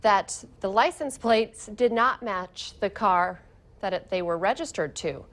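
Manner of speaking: measured anchor delivery; crisp scripted news delivery; news read. Acted. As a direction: read it as a local morning news story. Anchor reads news copy.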